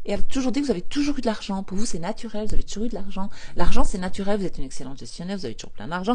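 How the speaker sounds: loud, sure of herself; firm affirmation. Shown as a demonstration. Coach modelling a money affirmation to viewers, firm and loud. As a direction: declare it as plain fact. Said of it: "faire la révision de votre histoire d'argent".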